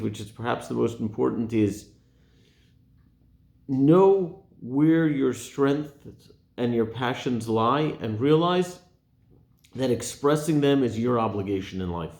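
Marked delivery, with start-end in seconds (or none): 3.7-8.8 slow, weighty, every word leaned on; emphatic teaching. Real, not acted. Rabbi stressing the six hundred fourteenth commandment slowly. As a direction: drag it out so it sinks in.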